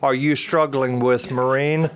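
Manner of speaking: slow, huffy mock exasperation; playfully huffy jab at a friend; huffy retort. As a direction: drag it out, needling him. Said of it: "got kinda huffy with him and said".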